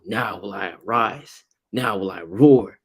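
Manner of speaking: slow solemn divine proclamation rising to a loud roar; voice of the Lord. Retold or imitated. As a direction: slowly proclaim it, then boom the word roar. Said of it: "that's how the Lord speaks".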